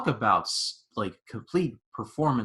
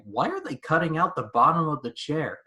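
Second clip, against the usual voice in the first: higher-pitched puzzled question; baffled retold question; 5 semitones higher than usual. Viewer recalling how clueless they were at eleven, baffled. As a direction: ask it in mock bewilderment. Retelling his confused reaction at eleven.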